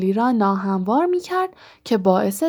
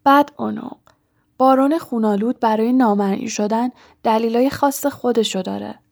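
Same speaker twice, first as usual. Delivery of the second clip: husky voice. Acted. Harry posing as the Bloody Baron, husky voice. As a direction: put on a husky, strained voice. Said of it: "با صدای گرفته گفت".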